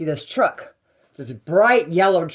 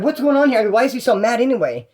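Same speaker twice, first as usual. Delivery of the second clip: pitched-up puzzled question; mock surprise; 6 semitones higher than usual. Confused friend asking what is going on, mock baffled. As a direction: play it baffled and a bit high. Confused at angry Mike's situation.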